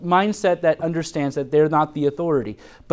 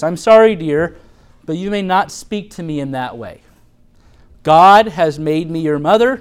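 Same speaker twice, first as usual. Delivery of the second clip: gentle firm correction; 7 dB louder than usual. Shown as a demonstration. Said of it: "we need to say things like this".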